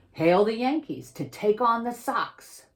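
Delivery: high, loud call hailing the team; excited announcing. Acted. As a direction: announce the team to a cheering crowd. Announcing teams in the story.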